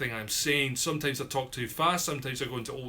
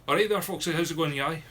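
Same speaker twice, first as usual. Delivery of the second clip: broad Scots greeting; 3 semitones higher, 3 dB louder than usual. Shown as a demonstration. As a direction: drop the careful enunciation into broad local Scots. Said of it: "Instead of".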